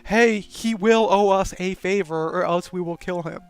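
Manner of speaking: loud, open demand with a threat; mock loud threat; blunt threat. Shown as a demonstration. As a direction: announce it like an ultimatum.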